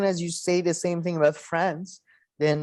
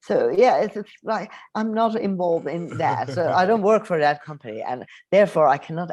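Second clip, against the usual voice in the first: mock politician dodging the question, pitched up and a bit louder; Rishi Sunak impression; 2 semitones higher, 3 dB louder than usual. Mocking Rishi Sunak dodging the interviewer, lightly raised and louder. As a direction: play the evasive chancellor brushing off the interviewer. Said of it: "and he's like".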